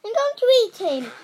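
loud, high, fast threat; raging giant. Acted. Giant threatening Jack as he chases. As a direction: spit the threat in fury.

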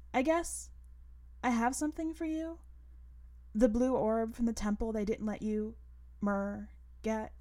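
put-on a girl shyly handing over a gift; girl character voice. Narrator voices the girl Cannon.

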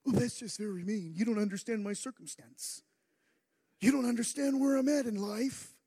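a hint of a self-pitying whine, quick; mock a sulking believer, lightly; whiny complaining voice. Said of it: "I don't know why I'm talking like that".

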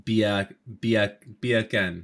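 "beer can" with a slight Jamaican spin; Jamaican-style accent. Shown as a demonstration. Host practising the word trick, Jamaican-style accent. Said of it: "had a little spin on it".

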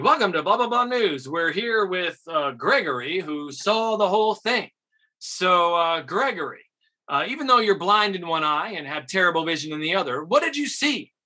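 a hint of a pompous anchor; newscaster. Cocky actor improvising as a famous newscaster, light anchor voice. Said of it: "he does his thing".

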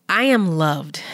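affirmation. Shown as a demonstration. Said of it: "can you say that with me right now out loud".

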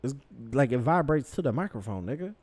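yelling. Real, not acted. Telling a co-host to stop touching the mic, yelling. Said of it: "Stop yelling at me like a child".

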